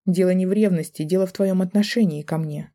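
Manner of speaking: insist, hurt and angry; wife insisting. Acted. Wife confronts husband about his attitude.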